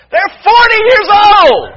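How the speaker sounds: high, loud, slow cry half laughing; laughing shout of exasperation; laughing exclamation. Real, not acted. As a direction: blurt it out in laughing disbelief. Exasperated punchline about grown kids.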